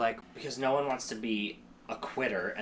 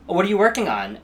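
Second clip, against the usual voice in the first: bright, interested ask, pitched higher; genuinely curious; 6 semitones higher, 9 dB louder, faster than usual. Retold or imitated. To a theater friend, curious and friendly. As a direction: sound sincerely curious about their work. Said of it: "such a subtle difference".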